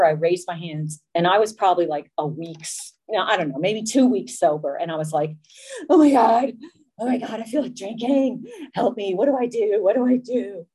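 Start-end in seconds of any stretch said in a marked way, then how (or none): 5.9-10.7 retold desperate plea; acted-out panic. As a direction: beg the room for help, overplayed. Acts her panicked plea at meeting.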